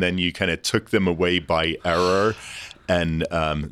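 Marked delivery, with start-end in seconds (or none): 1.8-2.3 "error" for era, New York accent. Real, not acted. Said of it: "little bit of New York accent coming out there".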